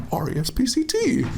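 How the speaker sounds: mock judge spelling. Imitating the TV judge spelling it out, high and laughing. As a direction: rattle off the letters in a squeaky mock voice. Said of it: "the judge is like".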